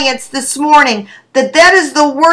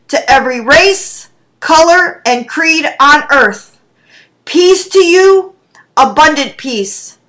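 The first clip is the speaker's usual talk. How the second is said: measured, dramatic Bible story reading; storyteller reading scripture aloud. A narrator's reading. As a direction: tell the story to the congregation. Preacher reads scripture story aloud.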